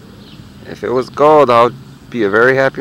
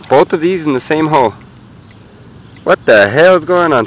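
surprised; 6 semitones higher, 6 dB louder than usual. Real, not acted. Two finds in one hole.

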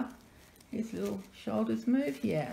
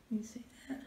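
whisper; 4 semitones higher, 8 dB quieter, faster than usual. Real, not acted. Pointing out artist's name.

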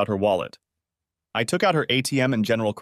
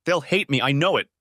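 higher, mildly tearful despair; understated crying; 5 semitones higher than usual. Acted. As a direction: fear of being hated, half sobbing. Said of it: "she cried".

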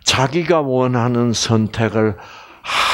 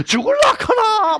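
high-pitched mock yell of outrage; outraged retort. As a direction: squawk it like a scandalized relative butting in. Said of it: "막 이렇게 이러고 나와".

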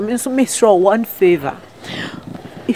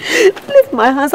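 slow, louder, higher warning; angry demand; 6 semitones higher, 4 dB louder, much slower than usual. Acted. Married woman pulling her hands away from her stalker. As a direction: drag each word out as she yanks free.

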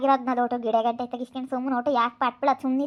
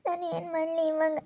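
softer, tearful complaint to her uncle; speaking through real tears; real crying; 3 semitones higher, 4 dB quieter than usual. Real, not acted. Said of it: "ನೀನ್ ಅಳಕ್ ಹೋಗ್ಬೇಡ".

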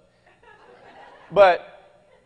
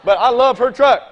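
laughing; 3 semitones higher than usual. Real, not acted. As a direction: admit it with a laugh in your voice. Joking correction, laughing.

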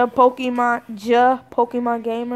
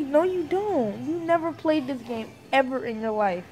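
exasperated retort. Retold or imitated. Brother contradicting his sister, exasperated. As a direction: shut the claim down with weary emphasis.

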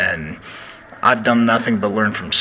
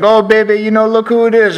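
much higher, louder put-on drawling coach voice; Dusty Rhodes impression; 11 semitones higher, 7 dB louder than usual. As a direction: ham up the old coach greeting a rival. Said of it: "Dusty would just be like".

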